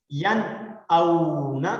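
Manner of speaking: ین اونا with a clear n and no nasal hum; clear n recitation. Shown as a demonstration. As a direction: model ین اونا plainly to repeat. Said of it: "غنہ نہیں کریں گے". (ین اونا صاف نون کے ساتھ)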